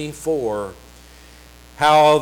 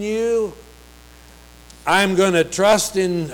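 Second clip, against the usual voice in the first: higher-pitched, earnest profession of trust; confident declaration; 4 semitones higher than usual. Acted. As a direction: voice the psalmist trusting God, lifted and deliberate. Voicing the psalmist's trust in God.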